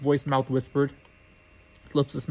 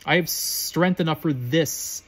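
very slow, measured dark lord; slow menacing voice; much slower than usual. Acted. Voldemort insisting to Quirrell, very slow and menacing. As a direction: draw each word out with menace.

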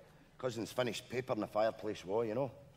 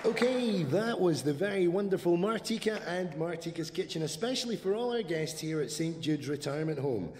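bright upbeat radio presenter read; chirpy hospital radio host; cheerful care-home radio announcer; 6 semitones higher, 4 dB louder than usual. Acted. Radio DJ link.

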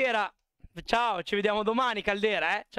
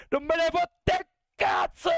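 high, slow, emphatic yell; loud mock-furious outburst; defiant shout; 10 semitones higher, 3 dB louder, slower than usual. Real, not acted. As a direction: blurt it out like you truly don't care.

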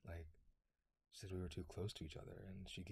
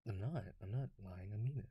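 insistent; 2 semitones higher, 4 dB louder than usual. Acted. Insisting the compliment is sincere.

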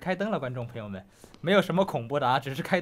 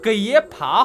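taunting catchphrase; 7 dB louder, slower than usual. Retold or imitated. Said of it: "我照样像上次那句话来说".

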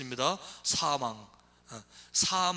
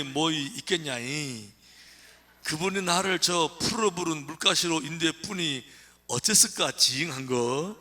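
Psalm 23 in broad Jeolla dialect, a bit louder with a laugh; 3 dB louder than usual. Pretend. Pastor reading Psalm 23 to the congregation, in Jeolla dialect. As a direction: relish every Jeolla word, folksy and playful. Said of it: "전라도로 해볼게요".

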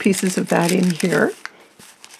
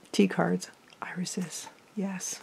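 whispering; 10 dB quieter, slower than usual. Real, not acted. Quiet remark while showing cards.

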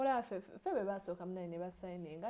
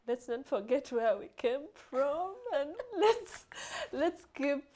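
emotional. Real, not acted. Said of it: "I'm so emotional".

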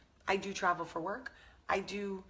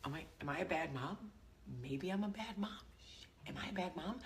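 doubting self; 7 dB quieter than usual. Retold or imitated. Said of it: "I was like".

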